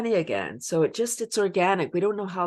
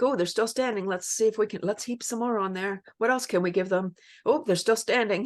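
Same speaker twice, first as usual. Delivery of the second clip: higher, mock-gleeful taunt of fate; 5 semitones higher, faster than usual. Joking that fate taunts the weary world, in a higher mock-gleeful voice. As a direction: play fate, gloating as it piles on more trouble. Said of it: "And I think it's like".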